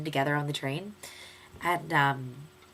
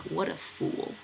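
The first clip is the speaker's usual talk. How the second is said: whispered verdict; 5 dB quieter, much slower than usual. Pretend. Future self judging video.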